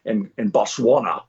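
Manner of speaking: lightly voiced Scottish star; a hint of celebrity impression; Sean Connery. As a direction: retell it as a Scottish film legend grousing. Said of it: "And he goes".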